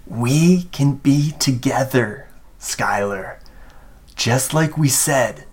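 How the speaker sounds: a hint of a waterlogged ghost, measured phrases; Liam. Drowned Liam to Skylar who summoned him, lightly ghostly. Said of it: "in this voice that's, like, bubbling and crackling with water and phlegm".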